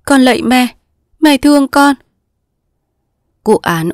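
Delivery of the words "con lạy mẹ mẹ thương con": high, loud anguished plea; begging. Acted. Daughter begging her mother, anguished. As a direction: beg desperately.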